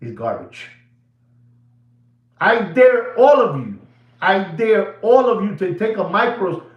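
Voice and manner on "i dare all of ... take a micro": raised voice daring the audience; loud challenge. Real, not acted. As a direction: call them out loudly. Challenging his viewers.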